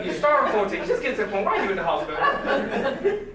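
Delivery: mocking social media posts with laughs; laughing mockery. Real, not acted. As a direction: poke fun while laughing.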